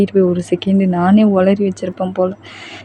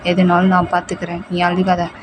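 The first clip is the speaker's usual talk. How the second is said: tender reassurance; 3 dB quieter than usual. Acted. Boyfriend vows love to comfort her.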